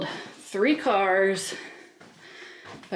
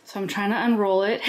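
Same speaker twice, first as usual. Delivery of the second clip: breathless while struggling with mattress; talking winded mid-effort; out of breath; faster than usual. Real, not acted. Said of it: "You can hear how out of breath I am".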